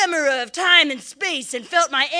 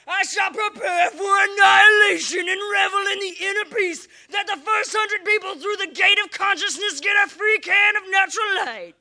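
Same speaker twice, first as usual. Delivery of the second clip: rising hype; 4 semitones higher than usual. Acted. Building to rally hype.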